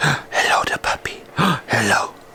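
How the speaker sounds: hushed, delighted, high whisper with a gasp.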